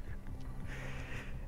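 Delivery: soft, breathy little laugh; barely voiced laugh to oneself; quiet chuckle. Real, not acted. Gamer on old school TVs until last year, quiet chuckle.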